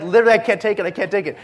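loud, high desperate plea; panicked plea. Retold or imitated. Preacher relives panic, trapped in a hot car. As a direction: beg like you're suffocating. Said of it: "I'm panicking".

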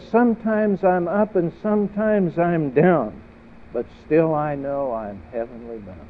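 proclaimed loud and high, settling by the end; saint's declaration. Acted. Preacher voicing a saint to the congregation, ringing declaration. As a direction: ring it out to the congregation, then ease down. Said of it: "A saint talks like this".

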